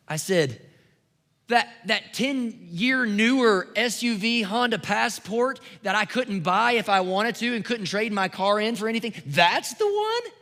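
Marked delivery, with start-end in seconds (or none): 1.5-10.3 slow, rising to a high squeak of disbelief; slow, amazed, ending in a high squeak; astonished disbelief. Retold or imitated. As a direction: stretch it out, then crack high on the one. Disbelief at the donated car.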